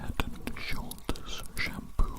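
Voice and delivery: slow, very quiet whisper into the ear; slow close ear whisper. Acted. Tester whispering a test phrase into the ear, slow close whisper. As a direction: draw the words out slowly right at the ear. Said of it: "whisper some words into your ears very closely".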